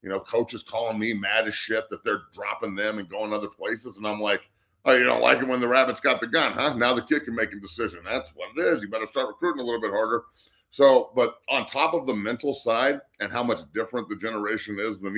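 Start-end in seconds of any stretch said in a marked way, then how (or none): 4.9-10.2 fast, goading comeback; quick-fire mock challenge; taunting retort. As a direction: rub it in to rival coaches. Retold retort to angry coaches.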